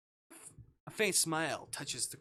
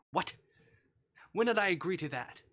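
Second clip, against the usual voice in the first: loud, higher, outraged what; indignant disbelief; 6 semitones higher, 7 dB louder than usual. Acted. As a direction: voice jumps up in shocked protest. Protagonist protests captor's claim.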